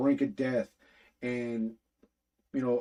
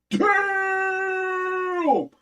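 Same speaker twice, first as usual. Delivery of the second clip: long, much higher drawn-out yell of disbelief; stunned shout; 5 dB louder than usual. Retold or imitated. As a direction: howl it out like the cliffhanger floored you. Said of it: "And you just left there like".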